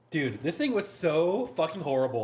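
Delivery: laughing through the confession; chuckling while admitting the truth. Real, not acted.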